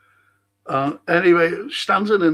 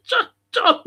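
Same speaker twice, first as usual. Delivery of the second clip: calling Don; 3 dB louder than usual. Retold or imitated. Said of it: "I said".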